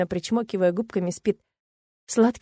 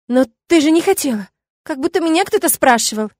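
giggling; 7 semitones higher, 7 dB louder than usual. A narrator's reading. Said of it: "хихикает, отзывается Тина".

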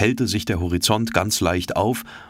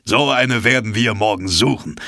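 louder, eager call; 4 semitones higher, 4 dB louder than usual. A narrator's reading. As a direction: shout the plan across to the others. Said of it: "rief Ned Land".

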